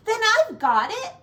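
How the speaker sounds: high, loud sudden idea; excited cry. A narrator's reading. Snail crying out her plan, excited and loud. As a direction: burst out with the plan. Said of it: "she cried".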